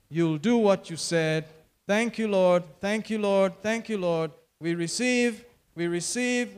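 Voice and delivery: preacher leading the congregation in praise; fervent prayer. Real, not acted. Pastor leading his church in prayer, fervent and rhythmic. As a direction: pray it out, rising and falling with conviction.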